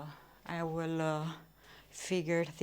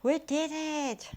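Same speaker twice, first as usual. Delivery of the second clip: laughing; 8 semitones higher, 6 dB louder than usual. Real, not acted. Cheering after the walk.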